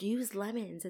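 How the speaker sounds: mock snooty know-it-all voice. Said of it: "It's that voice".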